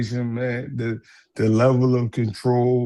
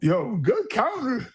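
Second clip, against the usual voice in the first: quoting the champ; 11 semitones higher, slower than usual. Retold or imitated. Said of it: "He was like".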